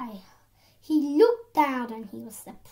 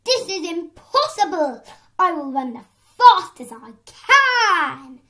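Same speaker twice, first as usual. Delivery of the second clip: exclaiming; 5 semitones higher, 10 dB louder than usual. A narrator's reading. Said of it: "he exclaimed".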